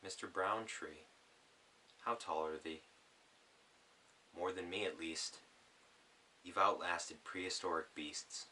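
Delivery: gentle spoken-word reading; poem reading. Acted. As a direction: read it like a poem to an audience. Reads his poem aloud.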